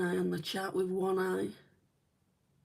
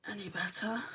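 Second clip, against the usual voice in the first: rueful whisper, softer; whispered aside; 6 dB quieter than usual. Real, not acted. To viewers, joking about getting lost, whispered aside. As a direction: drop to a whisper for the wry joke.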